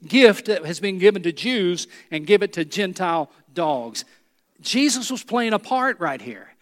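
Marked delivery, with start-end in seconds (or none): 0.0-4.0 lightly acted contempt for outsiders; Pharisee's rebuke. Preacher voicing a Pharisee to the woman, mild contempt. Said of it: "would have looked at that Gentile woman and said exactly that same thing".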